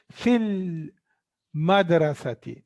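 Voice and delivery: "Fil madrasati" with the L of "Fil" clearly held; lam pronounced. Shown as a demonstration. Teacher showing students that lam is pronounced, L sounded clearly in "Fil madrasati". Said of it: "that's why lam is pronounced".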